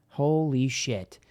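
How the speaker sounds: slow breathless whisper of shock. Real, not acted. Reader stunned by the Magician card, whispers slowly. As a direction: whisper it, stunned by what you see.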